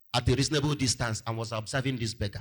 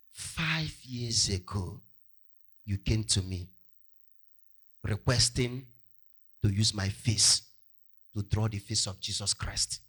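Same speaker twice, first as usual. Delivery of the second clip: grave revelation; 4 semitones lower than usual. Acted. Beggar's grave revelation to the artist.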